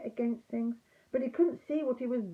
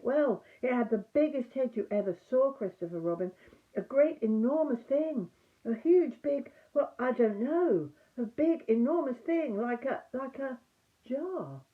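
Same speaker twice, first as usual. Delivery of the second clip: excited Piglet; 4 semitones higher, 3 dB louder than usual. Acted. Piglet describes the heffalump excitedly.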